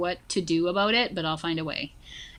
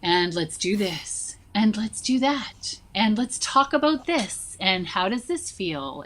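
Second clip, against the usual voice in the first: teacher leading a class. Acted. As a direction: lightly act a teacher, spacing out each step. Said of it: "have anybody in front of you and be like".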